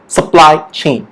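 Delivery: "supply chain" slowly, PLY stronger; measured model of "supply chain", weight on PLY; stress on PLY. Shown as a demonstration. Teacher finishing the drill for students, stress on PLY in supply chain. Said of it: "that means it's stronger there".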